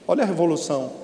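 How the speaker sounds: usual speaking voice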